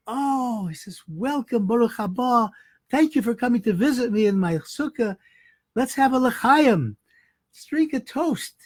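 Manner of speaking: poor Chassid happily welcoming the rich man; cheerful welcome. Retold or imitated. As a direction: greet him with open-armed delight. Poor man welcomes angry neighbor.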